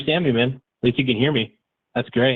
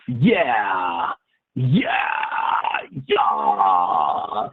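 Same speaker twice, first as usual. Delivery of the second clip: excited; 2 semitones lower, much slower than usual. Real, not acted. Excited yells over phone.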